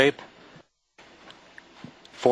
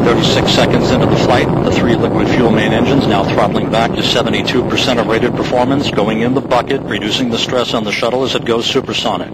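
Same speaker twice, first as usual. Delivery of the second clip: loud launch commentary; 7 dB louder than usual. Real, not acted. Commentary over launch roar.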